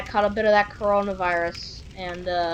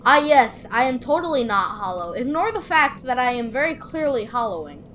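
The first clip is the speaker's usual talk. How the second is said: mock earnest; 3 semitones higher than usual. Mock reply to game knight.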